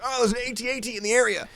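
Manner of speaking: high-pitched imitated battle alert; game soldier callout. Player quoting the Battlefront game, high mock callout. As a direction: call it out like a game character spotting danger.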